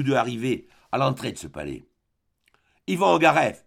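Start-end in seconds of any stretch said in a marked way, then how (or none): 2.9-3.6 a loud call of the name, pitched up; crying out. A narrator's reading. Nadia crying out the traitor's name for help. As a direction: cry his name out for help. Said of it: "s'écria-t-elle".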